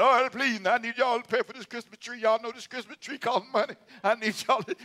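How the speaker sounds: high mock pleading; begging preacher. Preacher mocking a pastor begging for tree money, high mock plea. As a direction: whine for the offering, hammed up. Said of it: "begging, saying".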